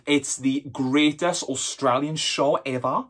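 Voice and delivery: slow, put-on Australian accent; mock Australian drawl; bad Australian accent. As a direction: attempt a broad Australian accent, drawn out. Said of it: "Worst accent ever".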